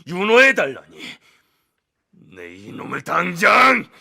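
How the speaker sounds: slow, enraged roar of a king; furious shout. Acted. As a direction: explode in royal fury. Furious king reads insolent letter.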